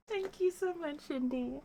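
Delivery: soft, high, tearful gratitude; touched thanks. Real, not acted. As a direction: say it softly, close to happy tears. Tearful thanks for surprise message.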